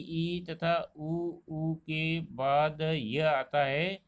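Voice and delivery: vowels ई and उ spelled out slowly; teacher sounding out ई and उ slowly; slow vowel demo. Shown as a demonstration. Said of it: "यदि ई".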